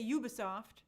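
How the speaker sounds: "Ubisoft" as the host used to say it, starting YOU; former pronunciation. Shown as a demonstration. Host recalls the old way of saying it, "Ubisoft" starting YOU. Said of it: "am I pronouncing that correctly? I used to say".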